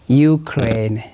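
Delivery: Ukraine opening on a drawn "you" sound; European pronunciation. Shown as a demonstration. Teacher giving a European example, you-sound Ukraine. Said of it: "like that".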